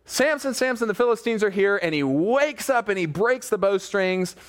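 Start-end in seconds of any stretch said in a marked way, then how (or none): 0.1-1.8 high-pitched yell without real volume; mock yell. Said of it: "and then yelled".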